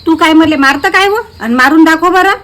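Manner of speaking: loud taunting challenge; angry dare. Acted. Friend daring the other woman to hit her, loud angry taunt.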